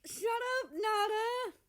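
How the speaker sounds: high, loud flustered shut-up; embarrassed groan. A narrator's reading. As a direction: snap at him, red-faced and shrill. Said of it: "America groans".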